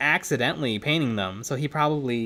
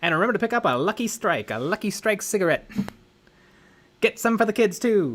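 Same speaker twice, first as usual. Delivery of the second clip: put-on old transatlantic mid-century announcer voice, higher; 6 semitones higher than usual. Imitating old movie speak, smacking the consonants: old transatlantic movie accent. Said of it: "They really smack those consonants".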